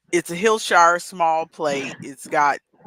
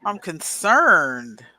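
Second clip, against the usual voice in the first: slow, drawn-out worried tone; drawn-out concern; much slower than usual. Real, not acted. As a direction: stretch out the worry. Worried about bubbly apple lid.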